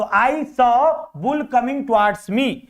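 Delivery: sentence read extremely slowly; slow reading aloud. Shown as a demonstration. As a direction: stretch every word for the class. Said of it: "तो". (वाक्य को बहुत धीरे खींचकर पढ़ना)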